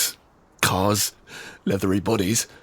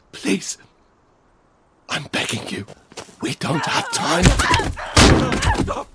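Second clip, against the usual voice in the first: pleading. Acted. Begging at knifepoint.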